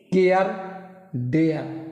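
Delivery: केयर, डेयर with an "ay" vowel before the r; teacher modelling the "ay" sound in केयर, डेयर; model pronunciation. Shown as a demonstration. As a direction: say केयर and डेयर as "kay-ar, day-ar". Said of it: "ए का उच्चारण किस के करना है".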